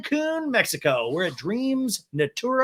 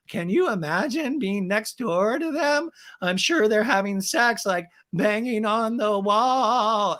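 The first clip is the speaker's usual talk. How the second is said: higher, slow put-on voice; Raquel impression; 5 semitones higher, slower than usual. Woman complaining to camera about room neighbours, mocking impression. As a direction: stretch the words in exaggerated mimicry. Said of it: "Raquel in a talking head goes".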